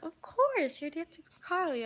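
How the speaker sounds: high, emphatic "of course"; emphatic retold reply. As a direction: imitate someone gushing that it's obvious. Retold star reassuring fan emphatically.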